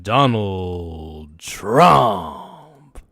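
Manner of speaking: slow drawn-out announcer call; hype announcer. Pretend. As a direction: stretch the name like a ring announcer. Hyping Trump like an announcer.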